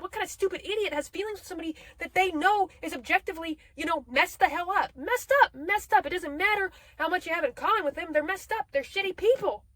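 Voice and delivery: frustrated self-rebuke, rising to indignation; self-scolding rant. Retold or imitated. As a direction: scold yourself for a crush. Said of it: "I'm like".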